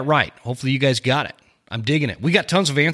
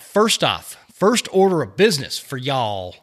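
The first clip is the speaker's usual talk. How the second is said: light Texas accent; a touch of Texas drawl. Shown as a demonstration. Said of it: "I threw in a little Texas accent".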